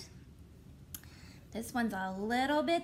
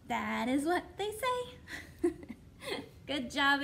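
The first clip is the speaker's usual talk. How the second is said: laughing; slower than usual. Real, not acted. Laughing through song end.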